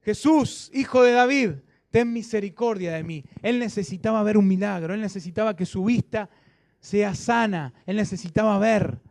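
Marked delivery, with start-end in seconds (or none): 0.0-3.2 raised, louder plea to Jesus; imitated cry for help. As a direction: call out like a blind beggar pleading to be heard. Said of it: "Él gritaba". (grito de súplica imitado)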